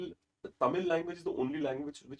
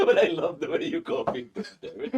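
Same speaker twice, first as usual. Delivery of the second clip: louder, laughing delighted praise; speaking through laughter; 8 semitones higher, 9 dB louder than usual. Real, not acted. Host laughs at impression.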